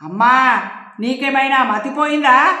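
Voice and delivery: loud, indignant question; angry outburst. Acted. Daughter asking her mother if she has lost her mind, loud. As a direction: confront her mother angrily.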